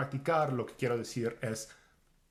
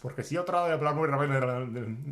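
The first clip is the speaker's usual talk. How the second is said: louder, pressed demo of rushing speech; emphatic; 5 dB louder than usual. Shown as a demonstration. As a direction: push it out loud as if rushing. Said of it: "when you're trying to speak really fast". (con énfasis, más fuerte)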